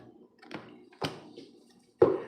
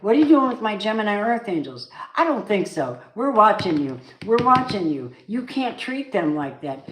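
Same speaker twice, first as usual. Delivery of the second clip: a raised, higher mock rebuke; God scolding; 4 semitones higher, 4 dB louder than usual. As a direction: voice an indignant God warning them. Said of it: "He goes".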